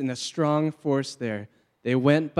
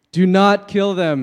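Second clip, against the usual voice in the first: higher and louder, forbidding; firm command; 6 semitones higher, 10 dB louder than usual. Acted. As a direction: stop the king cold, loud and firm. Prophet forbids king, read aloud.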